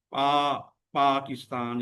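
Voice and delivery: पा stretched long, then पाकिस्तान; long drawn-out vowel. Shown as a demonstration. Teacher showing where to stretch, long पा in पाकिस्तान. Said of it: "लंबा खींचना पड़ता है".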